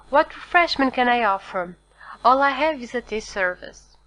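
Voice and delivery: lightly voiced innkeeper hurrying to make amends; hasty exclamation. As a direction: rush the pardons out to the abbé, eager to please. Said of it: "Caderousse hastily exclaimed".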